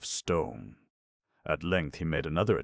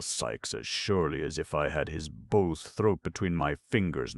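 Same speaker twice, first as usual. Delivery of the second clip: threatening rage. Acted. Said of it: "exasperated beyond all bounds".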